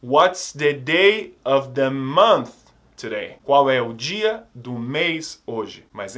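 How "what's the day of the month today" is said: slow model question. Shown as a demonstration. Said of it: "A não ser que a pergunta seja".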